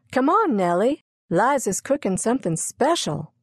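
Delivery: put-on high, eager little-girl voice; excited child. Daisy calls Nellie to see Liza's cooking, excited child voice.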